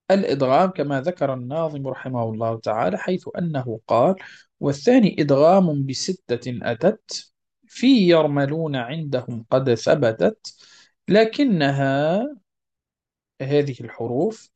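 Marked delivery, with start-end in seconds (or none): 4.6-12.3 slow, measured singsong verse; verse recitation. Acted. Teacher reads the rules poem to students, measured chanting recitation. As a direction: recite the poem with drawn-out vowels.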